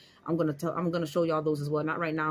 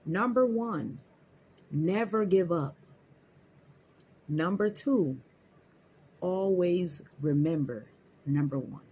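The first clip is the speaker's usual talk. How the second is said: quoting the lady; 2 semitones higher, slower than usual. Retold or imitated. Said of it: "She said".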